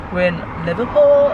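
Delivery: Scouse accent attempt; Liverpool accent. Shown as a demonstration. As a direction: say it with a Scouse lilt. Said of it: "let me try even do a Liverpool accent".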